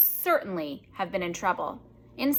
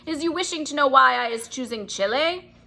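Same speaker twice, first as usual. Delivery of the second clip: boasting giant; 7 semitones higher than usual. Acted. Bloodbottler boasts to the BFG, greedy giant. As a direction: brag about his plans.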